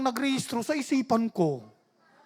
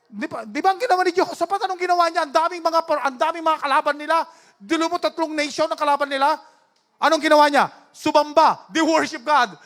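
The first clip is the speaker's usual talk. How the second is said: raised, emphatic preacher voice; preaching; 4 semitones higher, 4 dB louder than usual. Real, not acted. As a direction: press the congregation for an amen. Preaches to congregation. (masiglang pangangaral)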